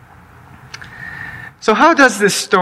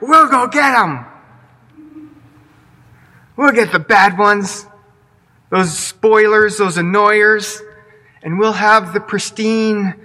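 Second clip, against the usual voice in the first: raised pitch, gung-ho promise; eager servants; 3 semitones higher than usual. Pretend. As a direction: servants sure they can fix it. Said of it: "servants who are like".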